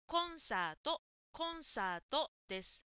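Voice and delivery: コンサート with a clear Japanese こ; Japanese-style コンサート; correct pronunciation. Shown as a demonstration. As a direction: model コンサート for the learner. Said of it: "英語の発音が入っています".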